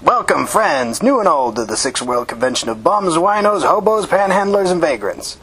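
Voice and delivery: slow, high, booming showman welcome; theatrical announcer. A narrator's reading. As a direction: stretch it out like a carnival barker. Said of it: "he said in a theatrical voice".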